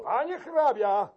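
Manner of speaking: high loud appeal; calling out. Acted. Key-keeper calling to the count, loud high call. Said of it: "zawołał klucznik".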